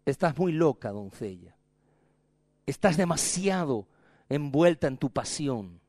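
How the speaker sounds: un toque de esposo calmado y suave; esposo sereno. Acted. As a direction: reprende con calma, sin alzar la voz. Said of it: "Dice el esposo". (el esposo responde a la novia, sereno)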